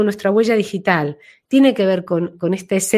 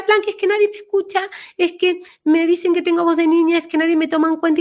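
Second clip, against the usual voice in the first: put-on high, fast whiny girl voice; little girl's voice; 8 semitones higher, faster than usual. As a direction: whine like an unheard child. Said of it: "vino así con una vocecita". (Blanca con vocecita aguda y quejosa)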